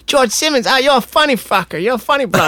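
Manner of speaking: a hint of a rowdy Australian mate; Aussie bro. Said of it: "and he's like".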